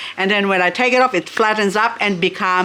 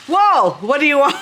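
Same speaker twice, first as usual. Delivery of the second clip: higher, louder cheeky reply; playful mock reply; 6 semitones higher, 3 dB louder than usual. Pretending the plant answers a caller, cheeky and higher. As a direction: toss back a sassy answer. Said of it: "someone's calling you and then you say".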